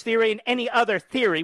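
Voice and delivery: "theory" pushed up high both times; stress on theory. Shown as a demonstration. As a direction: lean hard on each "theory", scornful. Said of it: "with emphasis on the word theory".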